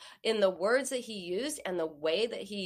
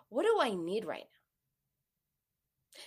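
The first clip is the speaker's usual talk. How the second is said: a gentle private whisper; much slower than usual. Shown as a demonstration. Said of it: "Ask yourself".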